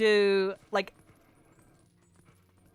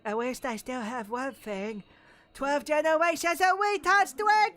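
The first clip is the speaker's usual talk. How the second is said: imitating Black Link; 5 semitones higher than usual. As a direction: shout the line like the cartoon villain. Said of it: "and he's just like".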